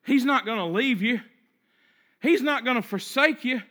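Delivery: firmer, fuller voice; a voice gaining strength in the dark; steady, strengthened declaration; voice getting stronger. Acted. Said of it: "The voice gets a little stronger".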